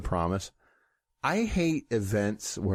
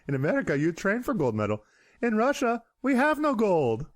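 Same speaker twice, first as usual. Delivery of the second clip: put-on Yakov Smirnoff accent; 10 semitones higher than usual. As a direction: play the Russian comic, pitched up. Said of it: "this almost sounds like Yakov Smirnoff".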